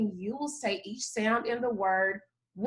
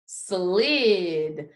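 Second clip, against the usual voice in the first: slid as one word, less drawn out; blended back together; 5 semitones lower than usual. Shown as a demonstration. Teacher putting the sounds together for the class, blended. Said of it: "give me the sounds that you hear".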